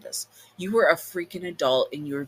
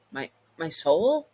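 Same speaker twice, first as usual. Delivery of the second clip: shocked; 2 semitones higher than usual. Acted. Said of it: "you say, shocked".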